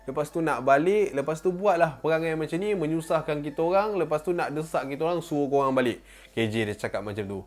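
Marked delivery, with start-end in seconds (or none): 0.0-6.0 irritated scolding. Retold or imitated. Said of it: "Lepas tu K J tu cakap".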